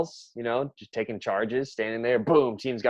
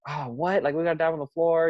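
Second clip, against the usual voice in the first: a higher, whiny imitation of a reluctant player; mock whiny complaint; 7 semitones higher than usual. Coach mimicking a reluctant player's whine, higher and mocking. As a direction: mimic a girl balking at the drill. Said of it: "a wimp about it".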